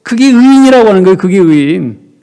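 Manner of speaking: fast, loud, high push on 의인이라고; emphatic declaration. Acted. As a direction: hammer home the point. Pasteur martèle sa conclusion.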